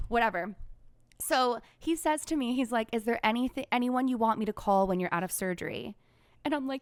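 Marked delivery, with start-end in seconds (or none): none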